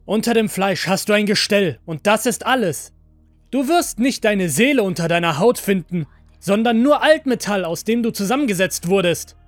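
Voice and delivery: loud, high, angry rant; frustrated tirade. A narrator's reading. Master telling android it has no soul, furious tirade.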